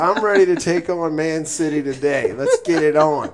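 laughing while talking. Real, not acted. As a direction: bold talk through real laughter. Joking bravado about Man City.

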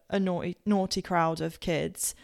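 naughty, naughty said with a slipped Southampton accent; lapsing into a Southampton accent on naughty; Southampton accent slipping. Real, not acted. Podcast guest's home Southampton accent slipping out on naughty. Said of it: "that was my accent coming".

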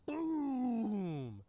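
high, soft, drawn-out boom sliding down; imitated boom. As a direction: make a long falling boom effect. Imitates the ice attack.

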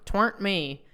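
"Twernt" as one syllable before "me"; home-made contraction "twernt". Shown as a demonstration. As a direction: squash it-weren't into "Twernt". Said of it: "I say twernt all the time".

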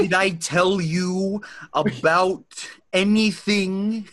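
slow, drawn-out Malkovich line; John Malkovich. Retold or imitated. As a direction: stretch each word like Malkovich. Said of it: "great Malkovich impression".

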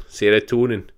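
put-on "serotonin" in a light Scottish accent; mock Scottish "serotonin". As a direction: relish the word "serotonin" as a Scot. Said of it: "I love saying serotonin in a Scottish accent".

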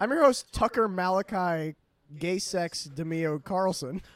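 loud, high, slowed TV host introduction; Tucker Carlson. Acted. Host introducing himself with absurd name, hammed-up. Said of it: "welcome to Tucker Carlson tonight".

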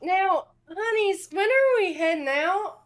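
a genteel Southern queen chiding her guests; Southern accent. Acted. Queen Argantel gently scolds the party in a Southern accent. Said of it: "do a Southern accent".

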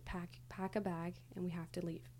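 softly voiced imitation of a whisper; retold quiet whisper. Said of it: "she would whisper really quietly".

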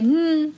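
high, drawn-out "hmm"; intrigued hum. Retold or imitated. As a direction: hum with rising curiosity. Retelling an intrigued reaction to a pairing.

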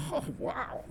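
breathy, high shocked whisper; stunned gasp. Retold or imitated. Teen shooter staring at his wounded friend, a stunned whispered gasp. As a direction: gasp it out like the shock just hit. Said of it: "deer in the headlights look like".

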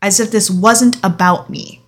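usual speaking voice

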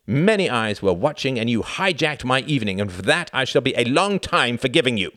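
high, loud indignant tirade; rage. A narrator's reading. Reginald berating Tom for hijacking his evening, enraged. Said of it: "the rage in his brother's".

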